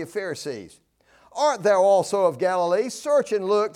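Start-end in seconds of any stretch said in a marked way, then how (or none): 1.3-3.7 louder, mildly scornful challenge; lightly acted Pharisee disdain; disparaging. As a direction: throw it out as a put-down. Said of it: "it's accurate, but it's disparaging".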